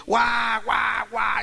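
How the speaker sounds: high mock wailing "waa, waa"; imitated child crying. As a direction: imitate a bawling child in short wails. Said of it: "estaba llorando el niño". (llanto de niño imitado)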